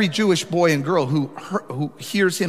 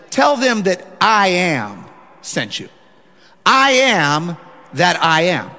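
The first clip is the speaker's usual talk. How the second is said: slow, louder, solemn divine voice from the bush; voice of God; 4 dB louder, slower than usual. Acted. Pastor voicing God to Moses at the burning bush, slow and solemn. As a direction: let each word land, slow and weighty like God speaking.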